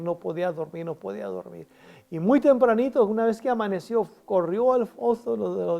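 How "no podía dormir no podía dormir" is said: repeated, sinking much softer each time; fading to a hush. A narrator's reading. Preacher lingering on the king's sleepless night, fading softly. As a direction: let it die away to almost nothing.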